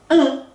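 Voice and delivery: Un said with a big grin showing back teeth; sorrisão largo no Un; wide smile un. Shown as a demonstration. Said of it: "Quero ver os dentes do fundo".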